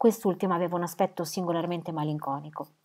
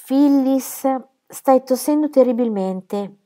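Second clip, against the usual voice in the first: put-on higher, louder worried call to the girl; real concern; 5 semitones higher, 7 dB louder than usual. Gertrude calls Phyllis from the window, worried. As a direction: urge her away from the draughty window, anxious. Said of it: "con reale preoccupazione".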